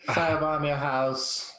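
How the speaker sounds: put-on unconvincing Irish accent; attempted Irish accent. Friend asked to repeat the line, shaky attempt at Irish accent. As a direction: have a poor go at an Irish accent. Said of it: "I don't think you sounded very Irish".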